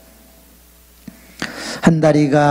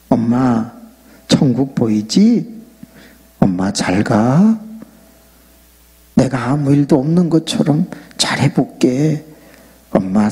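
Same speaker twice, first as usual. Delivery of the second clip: tender farewell; 3 semitones lower than usual. Retold or imitated. Farewell to his dying mother.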